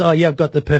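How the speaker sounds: ordinary talk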